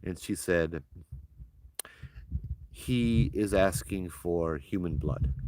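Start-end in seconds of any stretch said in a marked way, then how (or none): 2.7-5.3 slow, solemn delivery of a grim demand; grave relaying. Retold or imitated. Medium relays spirit's grisly demand.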